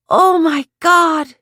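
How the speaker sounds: slow, high, loud terrified wail. A narrator's reading. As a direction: drag it out in sheer terror. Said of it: "she wailed".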